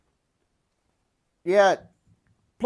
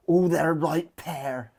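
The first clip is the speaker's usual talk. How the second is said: cheeky aside; 3 semitones lower than usual. Retold or imitated. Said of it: "I wanna go".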